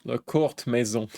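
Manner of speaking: jokey mock French phrase; joking French. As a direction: say it in playful French. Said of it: "my French accent".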